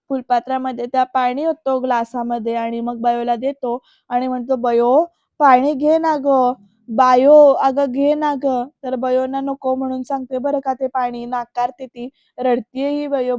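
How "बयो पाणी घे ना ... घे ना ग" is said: imitated uncle, slow stretched coaxing; louder, drawn-out plea; gently acted begging with long vowels; pleading coaxing. Uncle coaxes crying girl to drink.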